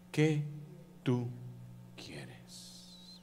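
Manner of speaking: slow, pausing, sinking to a whisper; Jesus' gentle question. Acted. Jesus facing the blind man, slow hushed question. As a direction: space out each word, fading away. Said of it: "¿qué le dice Jesús?".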